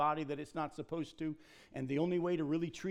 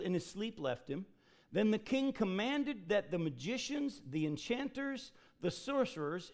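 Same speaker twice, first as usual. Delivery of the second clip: solemn scripture reading; 3 semitones higher than usual. Acted. Reading Daniel aloud.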